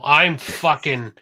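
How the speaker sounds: real annoyance, loud; annoyed. Real, not acted. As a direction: let the irritation boil over. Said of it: "I'm thoroughly annoyed now".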